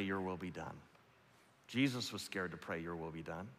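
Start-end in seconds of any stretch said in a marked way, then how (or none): 0.0-0.8 soft, lower trembling surrender; fearful hushed prayer. Acted. 2.8-3.5 very soft and low; almost a breath; hushed prayer. Acted.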